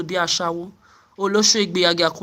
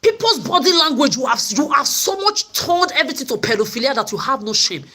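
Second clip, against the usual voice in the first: raised, higher voice hurled at them; angry shout; 5 semitones higher than usual. Real, not acted. Ranting at the people she blames, angry shout. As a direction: shout down the accusers.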